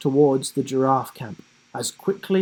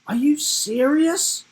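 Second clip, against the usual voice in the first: high, loud disbelieving exclaim; 5 dB louder than usual. A narrator's reading. Girl exclaiming to her friends in disbelief. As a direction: burst out in disbelief. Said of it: "she exclaimed".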